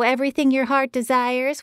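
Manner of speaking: "Everything Your Heart Desires" in a high, nasal Boston voice, rising on "heart"; thick Boston producer says "Everything Your Heart Desires", rising on "heart"; Boston producer naming the show, nasal and rising; Boston accent. A narrator's reading. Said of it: "A nasally voice came through the line in a thick Boston accent".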